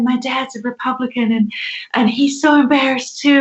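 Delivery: lightly imitated Southern US accent. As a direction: quote a Southern friend in her accent. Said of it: "her accent is so beautiful".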